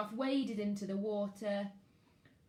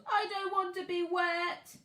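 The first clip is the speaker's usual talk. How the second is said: put-on high, louder little boy's wail; childish wail; 10 semitones higher, 5 dB louder than usual. Max fallen in the lake, high childish wail. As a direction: whine like a soaked toddler. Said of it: "he wailed".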